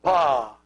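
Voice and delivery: pa with a long open ah; pronunciation demo. Shown as a demonstration. Teacher models the word for my, pa sounded out. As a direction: hold pa as one clear syllable. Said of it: "it's pronounced".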